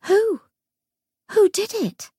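high, urgent shrieking question; shrieking demand. Acted. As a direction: shriek it in desperation. Lucy presses the ghost.

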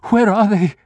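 high, loud urgent demand; desperate shout. Acted.

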